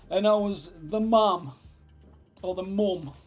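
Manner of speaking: loud, hammed-up indignant actress. Portman reminding the director, in hammed-up outrage.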